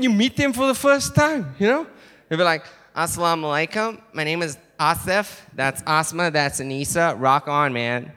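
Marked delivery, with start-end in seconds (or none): 3.0-8.1 easygoing American cousin's introduction; American accent. Acted. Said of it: "they're proper American".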